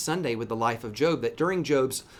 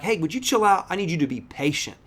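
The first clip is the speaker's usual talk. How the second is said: high, louder mock-firm dad; dad to fidgety son; 5 semitones higher, 3 dB louder than usual. Father in line telling his fidgety little son to chill out, firm. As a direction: tell an antsy kid to settle down. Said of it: "I'm like".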